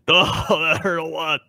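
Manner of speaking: hammed-up whimpering ogre; dim giant. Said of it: "do your ogre voice".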